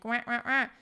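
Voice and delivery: bright duck-like twang on wah; twangy wah. Shown as a demonstration. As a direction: quack out a pinched twangy wah. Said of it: "add more twang".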